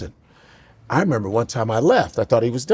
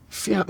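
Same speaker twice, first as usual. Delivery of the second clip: sound effect; 5 semitones higher, 9 dB quieter than usual. Retold or imitated. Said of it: "He had his own sound effects".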